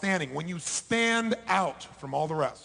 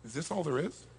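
softer, let-down murmur; deflated question; 3 semitones lower, 6 dB quieter than usual. Retold or imitated. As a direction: ask it like the air just went out of you. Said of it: "Then you went".

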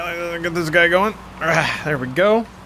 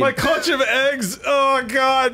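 high, slow mock lament; mock grief; 7 semitones higher, much slower than usual. Submariner mourning his clutch of eggs, hammed-up wailing. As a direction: wail it slowly, overplaying the loss.

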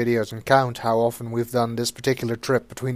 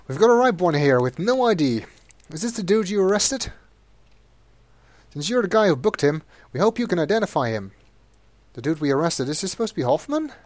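pitched-up cop voices; brief Sonny like a weary cop; officers at the scene; 5 semitones higher than usual. Acted. Officers ask Sonny to identify the body, pitched up.

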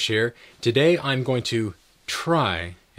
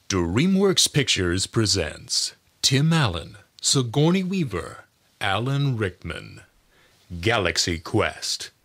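movie trailer voice. Shown as a demonstration. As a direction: cast list read like a trailer. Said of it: "announcer and movie trailer voices".

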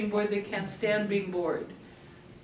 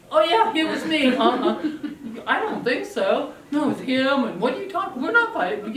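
higher, louder innocent protest; lying child; 4 semitones higher, 4 dB louder than usual. Pretend. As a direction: deny it like a guilty kid. Kids lying about who started fight.

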